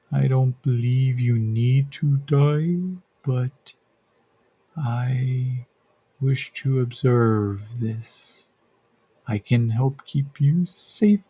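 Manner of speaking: slow, soft, gentle voice in his head; soft gentle creature. Acted. The creature speaks into Yakim's head, slow and gentle. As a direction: speak slowly and gently, like a thought. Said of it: "It's very soft and gentle".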